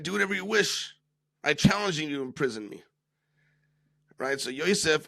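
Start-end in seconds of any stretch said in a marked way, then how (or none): 0.0-2.8 defiant dare. Retold or imitated. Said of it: "Shimon turns to Yosef defiantly".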